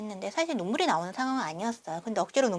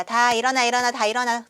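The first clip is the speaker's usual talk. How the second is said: louder, insistent rousing shout; louder call waking strangers on a night train; loud wake-up call; 2 semitones higher, 6 dB louder than usual. Retold or imitated. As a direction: keep calling until everyone stirs. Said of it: "다 깨웠어요".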